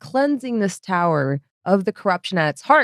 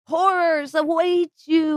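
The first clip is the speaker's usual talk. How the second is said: spooky narrator; 10 semitones higher than usual. Acted. GM spooky intro voice.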